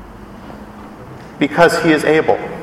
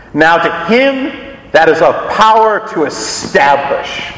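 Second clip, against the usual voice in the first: archaic scripture reading. Shown as a demonstration. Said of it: "King James translates ... in its old language".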